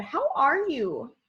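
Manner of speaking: "How are you" asked slowly for the class; "How are you" drawn out as a teacher's example question; asking a question. Shown as a demonstration. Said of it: "when we are asking questions".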